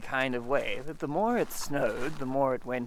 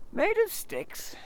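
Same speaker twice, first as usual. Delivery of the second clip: high, slow, worried question; dawning dread; alarmed bear; slower than usual. Acted. Pooh realising the sticks were Eeyore's house, alarmed.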